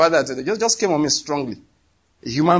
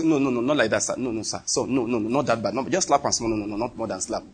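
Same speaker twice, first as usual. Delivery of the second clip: soft, pleading no no no, dropping lower; a hint of frantic pleading; mock begging; 5 semitones lower, 6 dB quieter than usual. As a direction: imitate someone begging for mercy. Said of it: "You'll be begging".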